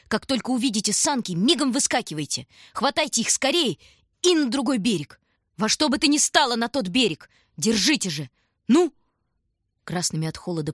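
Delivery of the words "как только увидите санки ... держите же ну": higher, louder urgent orders; urgent instructions. A narrator's reading. Lyutik hurriedly telling the kids how to escape. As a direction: rush the instructions out.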